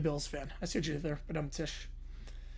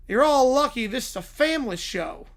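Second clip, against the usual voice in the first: Hank Hill; 4 semitones higher, 4 dB louder than usual. Retold or imitated. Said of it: "by Hank Hill".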